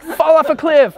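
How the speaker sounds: shouted goblin taunt. Retold or imitated. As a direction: spit it out as a nasty goblin. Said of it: "I'm like".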